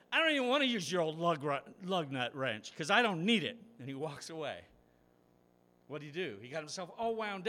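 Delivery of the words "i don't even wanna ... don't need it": very loud, high rant that cracks mid-word; furious shout. Acted. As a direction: spit it out and storm off. Angry driver storms off shouting.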